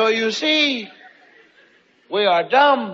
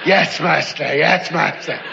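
lightly voiced servile minion; 4 semitones lower than usual. Playing an obedient minion.

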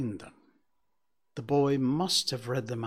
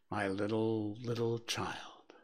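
grieving cry; 2 semitones lower, 7 dB quieter than usual. Acted. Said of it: "Bob cried".

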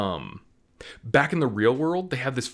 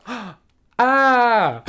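high, loud stagey gasp and yelp; badly faked fright; 12 semitones higher, 9 dB louder than usual. Imitating LeBron's wooden scare, a high loud stagey yelp. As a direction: fake a scare with no conviction. LeBron's bad startled reaction.

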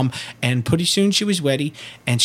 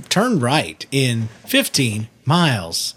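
GPS voice; 3 semitones lower, slower than usual. Retold or imitated. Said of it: "They tell you".

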